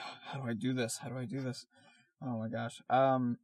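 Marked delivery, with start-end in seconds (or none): 0.1-1.7 soft unvoiced whisper, puzzled; whispered worry. Artist wondering how to write characters, whispering. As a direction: whisper the question to yourself, stumped. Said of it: "I was like".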